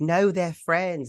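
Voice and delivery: put-on high, slow girl's voice; imitated reassurance. Omega telling Gunji they're friends, imitated high, drawn-out reassurance.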